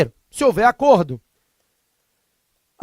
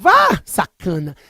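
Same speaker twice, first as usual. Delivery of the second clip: mock sarcastic tone; 2 semitones lower, much slower than usual. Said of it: "preste atenção na entonação".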